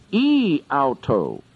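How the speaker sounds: "e auto" said as eh-AU-toh, Greek style; Greek pronunciation. Shown as a demonstration. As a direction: pronounce "e auto" carefully as Greek. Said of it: "so it's pronounced".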